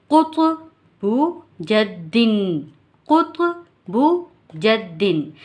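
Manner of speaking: क़ुतुबु जद्दिन, slow, each qalqala letter bounced; echoing qalqala. Shown as a demonstration. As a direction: let the क़ and द echo. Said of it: "जिनको हिलाकर पढ़ा जाता है".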